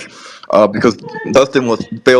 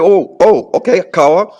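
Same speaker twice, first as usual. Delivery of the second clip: higher-pitched "oh" of dawning understanding; mild retold realization; 7 semitones higher than usual. Retelling his reaction to learning the Ewe word, mildly surprised. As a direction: react as if the word just clicked.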